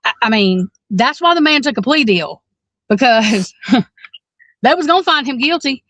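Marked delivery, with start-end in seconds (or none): 0.0-0.7 halting, stumbling over words; stuttering. Real, not acted. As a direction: trip over the words, starting again. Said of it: "I'm stuttering".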